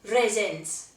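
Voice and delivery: Raisins said low as Welsh rhesins; Welsh word demo. Shown as a demonstration. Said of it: "raisins is really hard in Welsh".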